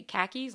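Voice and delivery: "khakis" as the way to say car keys; Northeastern pronunciation. Retold or imitated. Joking man teaching his Northeast sound, "khakis" for car keys. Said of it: "If you wanna sound like we sound".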